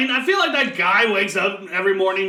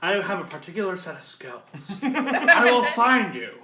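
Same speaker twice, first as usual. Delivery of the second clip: Liam Neeson impression. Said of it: "do the Liam Neeson speech".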